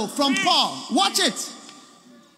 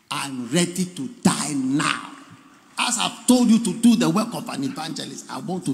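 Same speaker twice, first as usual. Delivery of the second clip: dying Paul; 9 semitones lower than usual. Retold or imitated. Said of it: "With his croaking voice".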